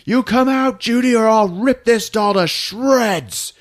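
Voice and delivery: high, slow mock threat; hammed-up threat. Ralph threatening to rip Judy's doll, hammed-up high taunt. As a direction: taunt the hiding child, hammed up. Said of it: "he's like".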